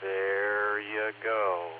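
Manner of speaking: very slow, drawn-out there you go; impression. Net control offering his own attempt at an impression, very slow and drawn out. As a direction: stretch it out like a mock radio voice. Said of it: "That's about the best I've got right now".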